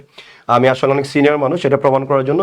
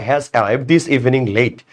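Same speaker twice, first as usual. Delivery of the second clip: slow reading; much slower than usual. Shown as a demonstration. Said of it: "বা".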